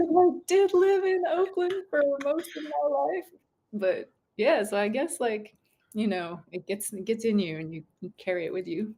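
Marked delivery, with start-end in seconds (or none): 0.0-3.2 retold reply. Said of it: "I was like".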